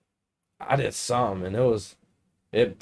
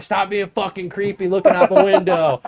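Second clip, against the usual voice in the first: higher, mock scolding voice; getting yelled at; 6 semitones higher, 3 dB louder than usual. Telling off grounded son at the window, mock yelling. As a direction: imitate a mild scolding yell. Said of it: "I get yelled at".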